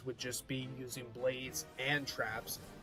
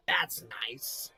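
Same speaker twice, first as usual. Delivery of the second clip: whisper. Real, not acted. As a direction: breathe it out unvoiced. Whispered aside.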